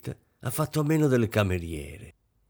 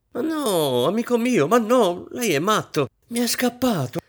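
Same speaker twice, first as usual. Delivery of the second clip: high, loud, flustered protest; flustered backpedal; 13 semitones higher, 5 dB louder than usual. A narrator's reading. Mistress apologizing to her offended servant, high flustered protest. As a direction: hurry to smooth it over, high and breathless.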